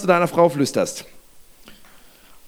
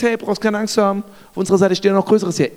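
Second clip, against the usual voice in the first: quick, dismissive quoting back; incredulous echo; faster than usual. Acted. Servant quoting Elisa's words back, hurried disbelief. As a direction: rattle his reassurance back at him in disbelief. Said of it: "Du stehst in einer überfordernden Situation und sagst".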